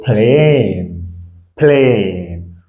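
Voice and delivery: plane with a stretched "ay"; English long A. Shown as a demonstration. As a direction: draw out the vowel in plane for learners. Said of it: "va avoir son son en anglais".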